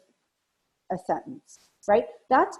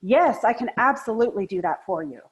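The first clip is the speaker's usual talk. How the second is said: keen, committed yes, leaning in; happy to do it for you; eager yes; 3 dB louder than usual. Shown as a demonstration. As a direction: sound truly willing to help. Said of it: "it would sound like".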